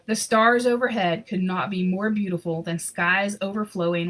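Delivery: lively storybook reading voice; story narration. A narrator's reading. Reading a Christmas picture book aloud, storyteller voice. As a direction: read the story warmly to an audience.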